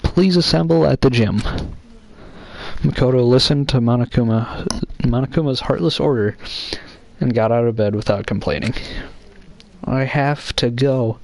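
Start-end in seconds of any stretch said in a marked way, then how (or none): 0.0-1.4 high, loud cartoon bear; Monokuma voice. Monokuma orders the students. 9.8-11.2 Makoto voice. Acted. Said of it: "Makoto impression".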